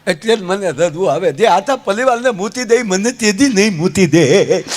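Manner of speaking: comic lisp turning "મૂકી" into "મૂતી"; lisping groom. Retold or imitated. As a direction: imitate a lisper, ક becoming ત in "મૂતી". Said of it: "પાછો તોતડો".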